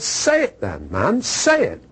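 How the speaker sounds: brusque insistence, rising at the end; gruff German. Retold or imitated. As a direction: press him impatiently for an answer. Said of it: "he was a gruff, big, you know, German".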